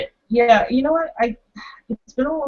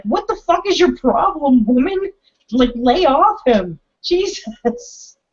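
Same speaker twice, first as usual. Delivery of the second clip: mock screaming at screen; 4 semitones higher than usual. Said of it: "just screaming at the screen".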